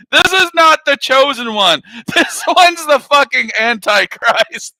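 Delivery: high, loud comic rebuttal; mock outrage. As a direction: contradict the gushing with laughing, exaggerated indignation. Contradicting the gushing, with laughs.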